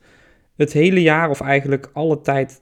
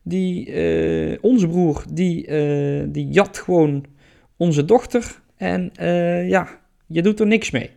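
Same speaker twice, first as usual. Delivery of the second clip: higher, complaining goddess mother; upset mother voice; 5 semitones higher than usual. Acted. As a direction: plead with him, high and upset. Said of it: "En ze zegt".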